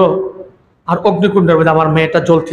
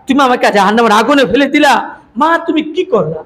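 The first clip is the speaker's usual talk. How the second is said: screaming to mother; 3 semitones higher than usual. Acted. Daughter in hellfire cries out to her mother, anguished high shout. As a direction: wail it like a daughter burning in fire. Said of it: "চিৎকার দিয়ে দিয়ে বলতেছে".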